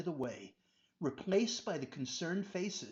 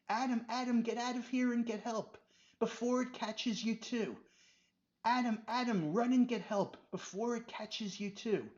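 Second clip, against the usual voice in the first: desperate scream; 6 semitones higher than usual. Acted. Robert trapped by the snakes, screaming for help. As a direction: beg for help in panic. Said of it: "Robert screamed".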